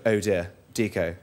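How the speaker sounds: a hint of a friend teasing him; mocking friend. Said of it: "one of my friends went".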